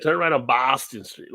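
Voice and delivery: put-on Boston accent GPS. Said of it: "She's like".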